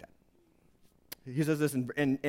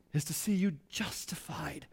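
whisper; 7 dB quieter than usual. Real, not acted. Whispered point.

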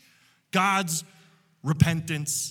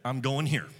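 low, quiet, sulky refusal, lower and softer; stubborn Jonah refusing; 6 semitones lower, 5 dB quieter than usual. Acted. Jonah refusing God's call, low and sulky. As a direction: mutter it like a prophet digging in his heels. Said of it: "Now, Jonah says".

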